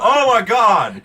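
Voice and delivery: high loud horrified cry; hammed-up horrified gasp. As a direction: exclaim in mock horror. Voicing horrified anchor.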